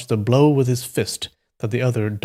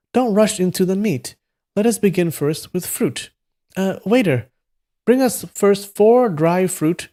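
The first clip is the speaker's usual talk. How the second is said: put-on high, lordly young voice; 8 semitones higher than usual. Boy showing off to the waiter, high lordly order. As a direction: order grandly, pitched high.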